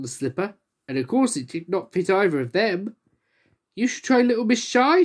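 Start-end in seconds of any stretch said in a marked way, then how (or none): 3.7-5.0 a higher, sly suggestion. Acted. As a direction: plot to embarrass Miss Shy. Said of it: "suggested ... slyly".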